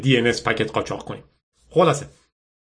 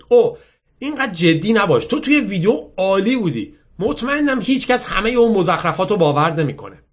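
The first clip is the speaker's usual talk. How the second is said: put-on higher-pitched girl coaxing; breezy, persuasive girl; 7 semitones higher than usual. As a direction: play the upbeat girl reassuring him. Voices the girl in the story.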